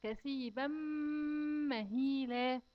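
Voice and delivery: كثيبا with a held nasal ghunna into مهيلا; كثيبا مهيلا with a clear nasal hum; nasalized tanween. Shown as a demonstration. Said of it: "وراه حرف الميم، لازم تغنه".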